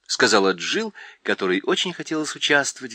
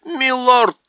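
much higher, much louder slow shout; owl yelling with all her might; 12 semitones higher, 9 dB louder, much slower than usual. A narrator's reading. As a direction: bellow it at full strength. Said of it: "изо всех сил прокричала сова".

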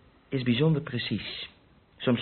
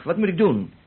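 exasperated plea; 6 semitones higher, 4 dB louder than usual. Acted. Suspect argues back.

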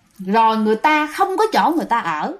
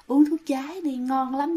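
much softer, sweet coaxing murmur; soft sweet lure; 6 dB quieter than usual. Retold or imitated. Ghost murmuring into the farmer's ear, soft and sweet. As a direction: coax it gently right into someone's ear. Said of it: "nói nhỏ nhỏ nha, nói cái giọng im, giọng ngọt cái lắm".

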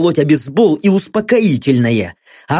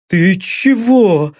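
bleating; 2 semitones higher, much slower than usual. Acted. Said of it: "проблеял блондин".

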